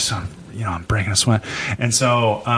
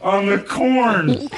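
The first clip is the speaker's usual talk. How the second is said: high, slow, giggling confession; sheepish laughing kid voice; laughing through it; 10 semitones higher, much slower than usual. Retold or imitated. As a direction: squeak it out while laughing. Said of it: "I was like".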